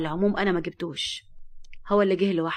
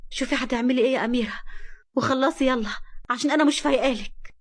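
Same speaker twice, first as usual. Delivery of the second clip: higher and sharper, fed up; irritated; 4 semitones higher, 3 dB louder than usual. Acted. Nour dismisses the maid Amira, irritated. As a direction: brush her off impatiently.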